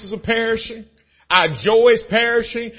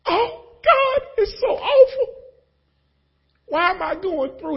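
mock lament; 9 semitones higher, slower than usual. Lament to God.

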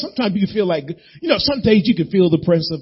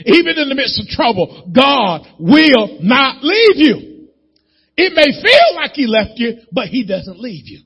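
high, loud, stretched preaching cry; preaching at full force; 8 semitones higher, 5 dB louder than usual. Acted. Pastor urging the congregation, rising preaching cry. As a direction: drive the promise home to the church.

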